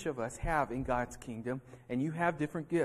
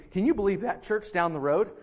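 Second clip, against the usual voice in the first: scornful gossip; 5 semitones higher, 10 dB louder than usual. Acted. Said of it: "they're saying".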